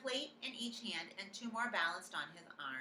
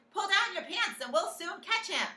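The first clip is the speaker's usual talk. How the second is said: shouted advice; 13 semitones higher, 9 dB louder than usual. A narrator's reading. Cooks shouting at victim.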